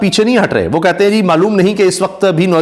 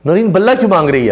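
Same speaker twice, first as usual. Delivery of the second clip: echoing the anchor's question. Retold or imitated. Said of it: "یہ آپ نے سنا؟".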